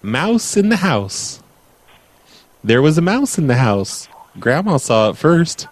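lilting picture-book narration; measured storybook delivery with swooping key words; bedtime story reading. Acted. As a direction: read to a child with sing-song emphasis. Reads a bedtime story aloud.

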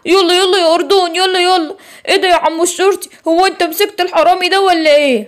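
a playful small creature egging his friend on; cheeky little monkey. Acted. Second little animal answers.

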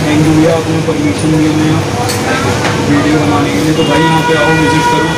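holding snack at lips; talking past fingers; hand near mouth. Real, not acted. Seen 0: Fingers holding a small snack at chin/mouth throughout the labelled words.

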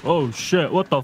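panicking gamer. Real, not acted. Monster appears in game.

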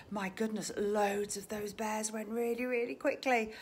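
hushed whispered aside; whispered amazement. Real, not acted. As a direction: drop to a whisper in awe. Aside about bears selling.

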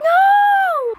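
high shouted no. Real, not acted. Watching an anime, shouting no at the screen.

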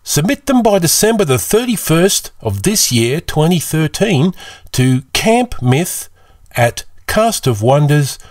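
put-on bright, high young camper voice, pitched well up; a young camper host pitching far above his narrator voice; Felix voice. Young camper Felix inviting listeners to enter the contest, high and eager. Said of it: "Felix here".

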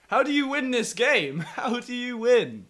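high, loud laughing exasperation. Real, not acted. Player losing again, laughing in frustration. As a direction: laugh it out in disbelief.

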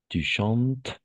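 "chantes" with no final s sound; silent ending. Shown as a demonstration. Teacher corrects a pupil's conjugation, silent endings. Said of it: "Todas vamos a pronunciar como el radical".

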